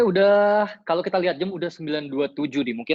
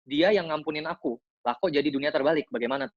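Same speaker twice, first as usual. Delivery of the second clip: slow read-out question. Shown as a demonstration. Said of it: "aku bacain sekali lagi".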